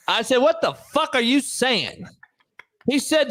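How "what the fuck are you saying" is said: baffled. Retold or imitated. Retold baffled reply to countryman.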